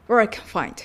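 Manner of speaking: "Where I can find" with a very short "Where"; "Where" reduced and linked to "I"; shortened WHERE. Shown as a demonstration. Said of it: "Whereが短く発音され".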